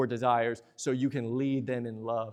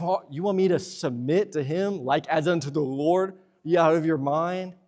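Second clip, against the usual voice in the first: mock indignant wife; 2 semitones higher than usual. Wife voiced objecting to submission.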